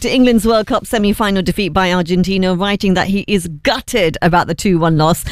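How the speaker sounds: radio news bulletin delivery; news read. Acted. Presenter reading royal football reaction to listeners, news read. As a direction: read it as a measured newsreader.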